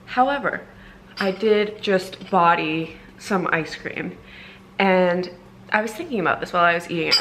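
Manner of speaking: talking with a retainer in; speech slightly thick from a retainer; wearing a retainer. Real, not acted. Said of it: "I have my retainer in".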